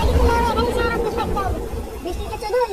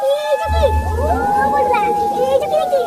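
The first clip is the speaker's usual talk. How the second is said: frightened; 4 semitones higher, slower than usual. Acted. Sees something frightening.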